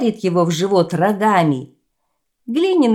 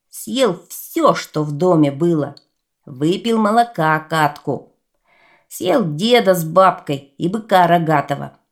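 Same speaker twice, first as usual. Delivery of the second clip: put-on greedy clay boy voice; 4 dB louder than usual. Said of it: "им и говорит".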